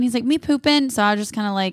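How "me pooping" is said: lightly voiced little kid, higher; a small child's matter-of-fact reply; a hint of a toddler announcing. Mom imitates toddler.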